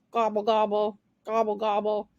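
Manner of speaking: low turkey gobble; lightly voiced turkey gobble. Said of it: "Toodles hated her sound".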